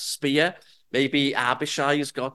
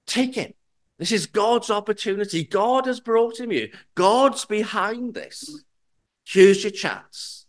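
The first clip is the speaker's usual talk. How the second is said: eager, pressing higher voice, pushing him to act; urgent tempting; 4 semitones higher than usual. Acted. Abishai urging David to strike Saul, eager and pressing. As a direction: tempt him, it's your chance.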